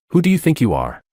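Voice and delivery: high, scornful demand; contemptuous. A narrator's reading. Father belittling his adopted daughter, scornful. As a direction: snap it down at her. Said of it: "slapped her hard across the face".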